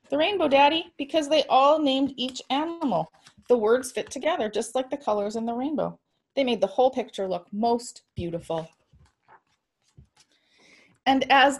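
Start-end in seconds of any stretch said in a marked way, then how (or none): 0.1-6.0 put-on high, eager child explaining; little girl voice. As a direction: talk like an excited little girl.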